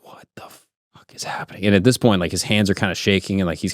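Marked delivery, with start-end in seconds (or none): 0.0-1.7 acted whisper of disbelief; stunned whisper. Friend lying there after the voice speaks, stunned whisper. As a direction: whisper it as if frozen in bed.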